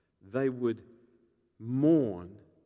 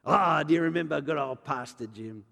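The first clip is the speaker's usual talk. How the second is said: fond reminiscing; 5 semitones higher, 7 dB louder than usual. Acted. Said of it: "they would tell the stories".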